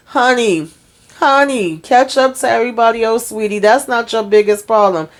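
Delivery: mock-sweet condescension. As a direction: talk down to him with pet names. Mock advice to a show character.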